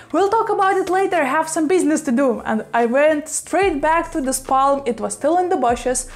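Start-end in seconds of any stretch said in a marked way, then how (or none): 0.1-2.3 quick and high, waving him off; fast, higher brush-off to the boyfriend; hurried brush-off. Retold or imitated. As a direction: rattle it off fast, already halfway out the door.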